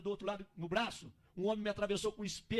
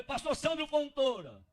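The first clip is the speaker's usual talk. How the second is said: resposta alta, arrastada e mais aguda; anuncie-se para quem está dentro; anunciando-se alto; 5 semitones higher, 5 dB louder, slower than usual. Acted. Responde gritando para dentro do barraco. (chamando em voz alta)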